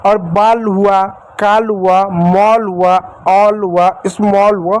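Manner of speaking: बाल, काल, मॉल, ऑल, स्मॉल each with a round ऑ sound; pronouncing the aw sound. Shown as a demonstration. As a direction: drill the ऑ sound word by word. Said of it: "औ की मात्रा पढ़ रहे हैं".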